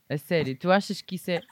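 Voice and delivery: words broken up by real laughter; laughing while talking. Real, not acted. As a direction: say it while you can't stop laughing. Laughing at the comparison.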